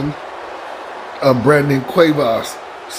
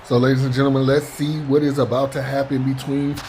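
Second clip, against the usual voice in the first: lively ringside play-by-play; wrestling commentator. Acted. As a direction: call the match like a TV announcer. Live play-by-play of wrestling match.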